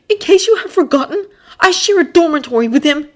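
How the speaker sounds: high, loud irritated grumble; grumbling. Acted. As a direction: grumble it out annoyed. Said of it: "Draco grumbled".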